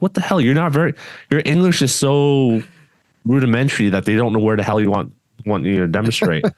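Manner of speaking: a hammed-up indignant reaction; mock exasperated retort. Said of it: "I'm like".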